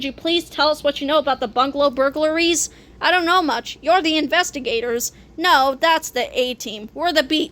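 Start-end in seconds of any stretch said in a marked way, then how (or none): 3.8-5.1 "investigators" said without punching "gators"; no stress on "gators". Acted. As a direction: say "investigators" normally, leaving "gators" unstressed. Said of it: "you didn't put the emphasis on gators".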